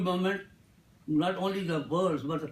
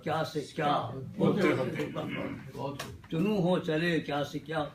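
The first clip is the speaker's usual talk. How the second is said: mushaira-style poetry delivery; ghazal recitation. Acted. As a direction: linger on the refrain as it falls away. Recites Urdu ghazal couplets to audience.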